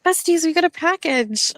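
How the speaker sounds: high, happy call to friends; excited announcement. Real, not acted. Host telling besties about a package, excitedly.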